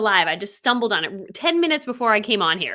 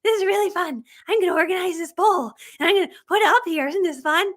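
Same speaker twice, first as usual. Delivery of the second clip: high, put-on perky voice; mock your own forced cheer; fake enthusiasm; 7 semitones higher than usual. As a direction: pretend it's fun in a high false voice. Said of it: "became a fake version of myself".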